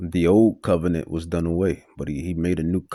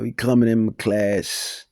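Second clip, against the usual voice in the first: imitated Southern accent, pitched up; Mister King; 4 semitones higher than usual. Teacher scolding a pupil coming into class, imitated Southern accent. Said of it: "he had his accent".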